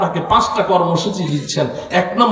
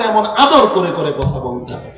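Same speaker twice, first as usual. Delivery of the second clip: tender, soft; 4 semitones lower than usual. Shown as a demonstration. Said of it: "নরম স্বরে নিম্ন আওয়াজে".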